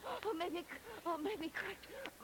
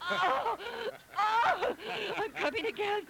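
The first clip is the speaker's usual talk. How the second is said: climax cry; 4 semitones higher, 5 dB louder, much slower than usual. Acted. Second climax in sex scene.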